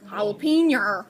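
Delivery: Southern accent. Shown as a demonstration. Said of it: "It's an accent".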